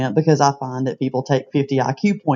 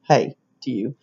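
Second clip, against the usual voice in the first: "Hey" short and sober, no lift; serious hey; 3 semitones lower than usual. Shown as a demonstration. Someone about to tell you something unpleasant, short serious hey. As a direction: drop "Hey" briefly, as before bad news. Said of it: "getting ready to tell you something unpleasant".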